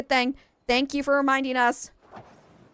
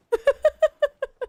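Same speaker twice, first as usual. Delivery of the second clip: a short burst of very high laughter; 5 dB louder than usual. Real, not acted. Laughing at her own doctor impression, high burst. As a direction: let out a quick high laugh.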